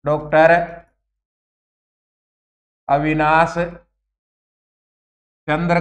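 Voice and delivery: Doctor, Avinash, चंद्र का मत one by one with pauses; slow dictation. Shown as a demonstration. Teacher dictating the scholar's name. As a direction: spell out the name for notes. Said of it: "teacher dictates name".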